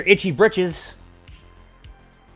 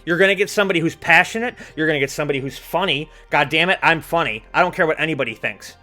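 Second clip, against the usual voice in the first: wrestling promo; 2 semitones lower, faster than usual. Acted. Fast boastful promo rant.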